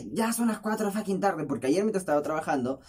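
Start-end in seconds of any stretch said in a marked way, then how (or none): 0.1-1.5 raised, exasperated retelling; retold yell. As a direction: mildly act out an exasperated yell. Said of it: "Pero grité". (grito exasperado, apenas representado)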